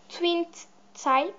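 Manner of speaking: English product name in a real French accent; halting English words with a French accent. Real, not acted. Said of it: "désolée pour mon accent anglais merdique".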